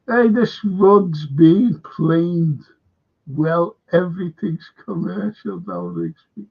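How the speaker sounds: slow, drawn-out mock voice; imitating Colin. Colin's remark to Rigsby, lightly imitated slow. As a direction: stretch it like Colin.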